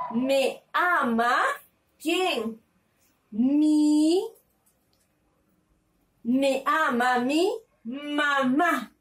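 drawn out word by word; slow dictation. Shown as a demonstration. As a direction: dictate slowly to little kids. Teacher dictating slowly.

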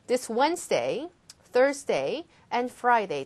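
Wednesday, Thursday, and Friday each set apart, rising then falling on Friday; list with pauses. Shown as a demonstration. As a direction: read the list one by one, pausing between days. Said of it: "하나하나 차근차근 끊어서 읽어주시면서".

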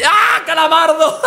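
amused surprise. Real, not acted. Vlogger spotting Squidward, amused and surprised. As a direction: drag out the name in delight.

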